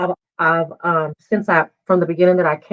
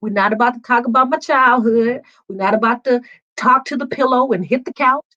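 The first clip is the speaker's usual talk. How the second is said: higher, sassy no-nonsense voice, half laughing; defiant refusal; 5 semitones higher than usual. Retold or imitated. Woman retelling telling her new therapist she won't discuss childhood, mock defiant. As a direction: lay down the law like you won't be talked into anything. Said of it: "I was like".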